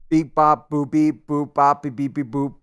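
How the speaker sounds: robotic beeping alien. Pretend. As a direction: beep and boop like a little robot. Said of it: "Don't just make noises".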